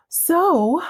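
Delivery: high whispered "So"; stage whisper. Real, not acted. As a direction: lean in with a secret. Conspiratorial pause in recap.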